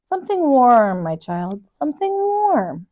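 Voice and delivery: put-on slow, tender old woman; gentle old lady voice. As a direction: soothe a child kindly. Old organist answers boy.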